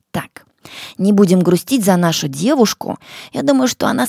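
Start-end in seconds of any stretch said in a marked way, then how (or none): 0.1-0.5 soft whispered aside. Real, not acted. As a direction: drop to a whisper.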